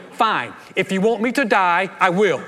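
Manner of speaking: hammed-up martyr resignation; exasperated giving in. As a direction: throw up your hands, fine. Husband gives in exasperated.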